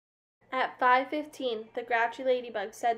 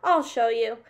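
screeching threat; 7 dB louder than usual. A narrator's reading. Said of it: "screeched the grouchy ladybug".

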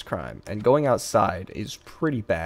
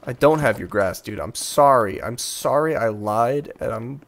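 loud, slow, hammed-up grovel; mock groveling apology; 4 dB louder than usual. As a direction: beg forgiveness in a hammy wail. Apologizing to angry customer.

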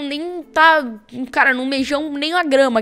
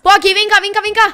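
calling out; 7 semitones higher, 7 dB louder than usual. Real, not acted. Calling teammate during fight.

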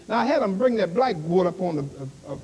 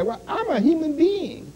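higher-pitched mock declaration; quoted self-assertion; 8 semitones higher than usual. Preacher quoting a listener's boast, mock assertion. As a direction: voice someone asserting themselves, pitched up. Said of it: "when you say".

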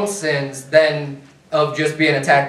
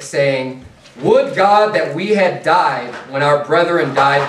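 scripture reading. Acted. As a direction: read the King James words deliberately.

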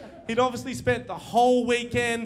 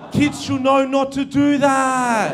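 mock serious; 5 semitones higher, 8 dB louder, slower than usual. Mock earnest lesson to kids.

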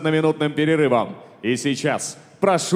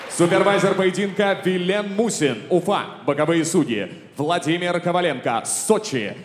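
boxing ring announcer. Acted. Ring announcer introduces officials.

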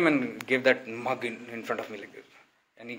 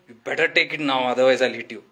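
louder threat with a mock angry edge; retold threat; 7 dB louder, faster than usual. Swami threatening the visitor over the water mug, mock angry. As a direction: imitate the swami threatening to hit. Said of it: "he said".

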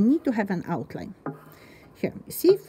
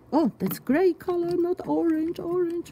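catching a mistake; 7 semitones higher than usual. Real, not acted. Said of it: "mistake, mistake".

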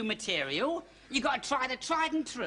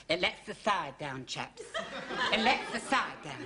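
trying a voice; 5 semitones lower than usual. Shown as a demonstration. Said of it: "All right, you try".

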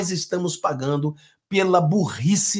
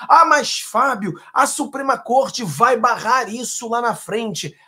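raised, slowed voice of an imagined critic; mock objector; 5 semitones higher, 5 dB louder than usual. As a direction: play the doubter whining back at him. (objetor imaginário, voz mais aguda e lenta)

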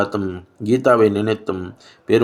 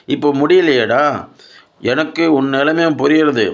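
high-pitched, earnest grandmother reasoning with her son; impassioned grandmother; 5 semitones higher than usual. Acted. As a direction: plead the case with insistent feeling. Grandmother's long impassioned speech to son. (உணர்ச்சியுடன் உயர்ந்த குரலில் வாதாடும் பாட்டி)

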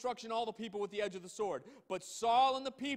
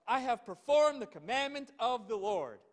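proud claim; 3 semitones higher, 7 dB louder than usual. Acted. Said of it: "Look at, really?".

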